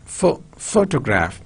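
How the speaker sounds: "pho-" alone, then "photograph" with the first syllable stressed; teacher demonstrating PHO in photograph; PHO..., PHO-tograph. Shown as a demonstration. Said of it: "stress syllable, one".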